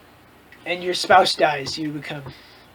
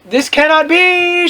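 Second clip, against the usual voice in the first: mild mock shout; 8 semitones higher, slower than usual. A narrator's reading. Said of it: "she shouted angrily".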